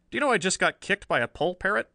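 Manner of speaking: baffled, can't believe it; bewildered. Acted. Riley reports strange kick.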